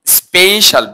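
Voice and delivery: স্পেশাল with a long "ay", "SPAY-shal"; correct pronunciation. Shown as a demonstration. Teacher repeats the right word for students, corrected pronunciation. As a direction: stretch the first vowel of স্পেশাল. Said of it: "হচ্ছে স্পেশাল".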